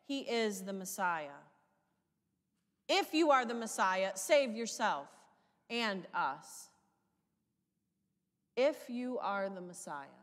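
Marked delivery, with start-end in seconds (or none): 0.0-1.4 higher, louder jeering start that settles back; a preacher voicing the crowd's sneer; mocking taunt. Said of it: "they mocked". 2.9-6.7 mocking. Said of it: "we hear the mocking".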